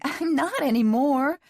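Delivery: high, emphatic protest after a laugh; shaky amusement. A narrator's reading. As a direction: protest loudly, drawing out the words. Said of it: "She laughed shakily".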